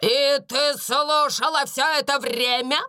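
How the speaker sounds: медленно и холодно; допрашивать властно; строгая Минчин. A narrator's reading. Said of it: "спросила мисс Минчин". (хозяйка допрашивает Бекки)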